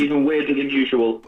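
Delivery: muffled over a phone speaker. Real, not acted. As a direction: talk through a Bluetooth phone speaker. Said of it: "apologies if the speaker sounds a bit muffled today".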